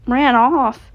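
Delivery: alarmed. Acted. Freddy alarmed at news.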